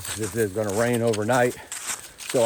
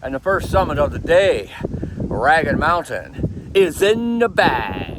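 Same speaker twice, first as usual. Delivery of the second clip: raised voice against the wind; shouting over wind; 3 semitones higher, 4 dB louder than usual. Real, not acted. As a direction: call it out loud over gusts. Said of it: "I don't know if you can hear me over this wind".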